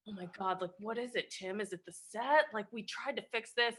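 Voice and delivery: anxious director. Retold or imitated. Director nervously asks the upset star what's wrong, hushed. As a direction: tiptoe around the star's mood. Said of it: "the director's like".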